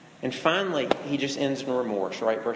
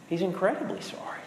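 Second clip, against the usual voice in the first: whispered, higher, mock contrition; mock-sorry whisper; 4 semitones higher than usual. Preacher mocking the boyfriend's remorse, in a whisper. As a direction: breathe it like a show of fake regret.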